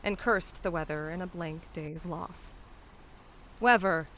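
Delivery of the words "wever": loud outburst; loud indignant cry from a flower seller. A narrator's reading. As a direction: call it out loudly, like a street seller. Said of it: "she cried".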